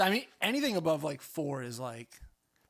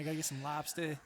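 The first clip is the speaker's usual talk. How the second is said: Boston accent; 2 semitones lower, 5 dB quieter than usual. Shown as a demonstration. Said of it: "I gotta work on it".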